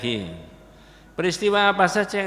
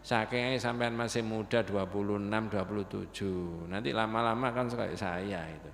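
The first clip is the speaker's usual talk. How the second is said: lightly voiced old man, softer and unhurried; patient old man; 4 semitones lower, 4 dB quieter than usual. Old man calmly replies to a rude youth, lightly voiced and unhurried. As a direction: answer calmly and gently, like a serene elder. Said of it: "bapak yang sepuh tadi".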